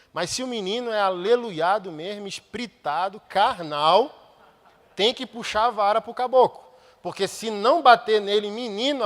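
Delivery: loud, driving sermon delivery; fiery preaching. Acted. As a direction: preach it hard to the congregation. Preaching at full force.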